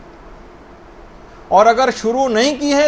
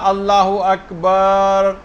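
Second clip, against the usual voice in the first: demo takbir; much slower than usual. Shown as a demonstration. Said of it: "مثلاً آپ نے کہا".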